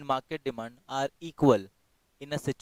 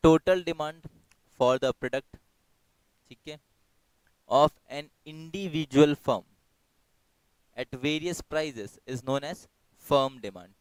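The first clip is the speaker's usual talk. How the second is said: slow, deliberate read of the answer; much slower than usual. Acted. Teacher reading the answer back to students, slow and deliberate. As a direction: spell out the answer for the class.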